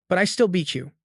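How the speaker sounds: gloat, lightly voiced; smug. A narrator's reading. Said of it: "smugly fires back with a high and mighty attitude".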